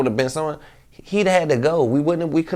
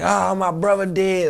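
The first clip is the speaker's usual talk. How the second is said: mock crying wail; 7 semitones higher, 3 dB louder, slower than usual. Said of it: "crying like".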